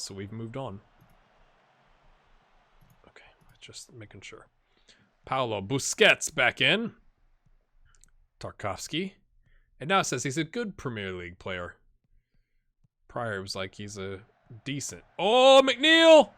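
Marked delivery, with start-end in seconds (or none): 3.1-4.5 whispered under breath. Real, not acted. Quick whispered aside to himself. 15.2-16.3 loud, high excited call; excited shout. Real, not acted. Louder and higher, cheering his striker.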